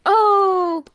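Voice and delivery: high squeaky surprised "Oh"; a cute, startled little gasp; cute anime streamer. Real, not acted. Reacting to a bug video.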